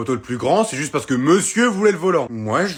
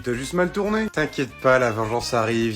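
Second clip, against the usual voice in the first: usual speaking voice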